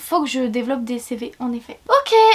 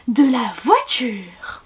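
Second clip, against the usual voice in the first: slow, dramatic trailer line; 2 semitones lower, much slower than usual. Acted. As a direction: say it like a movie teaser. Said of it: "voix de bande-annonce".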